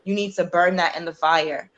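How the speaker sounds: lightly voiced, quiet divine instruction; measured counsel, gently handed down. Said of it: "the Most High is like".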